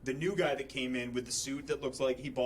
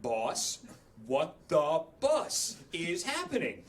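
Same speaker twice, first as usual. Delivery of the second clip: incredulous; slower than usual. Retold or imitated. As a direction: ask the boss in total disbelief. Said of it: "And I'm like".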